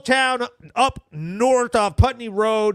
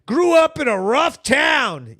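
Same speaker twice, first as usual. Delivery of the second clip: quoting a fan. Retold or imitated. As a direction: shout it like a proud fan. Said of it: "He go".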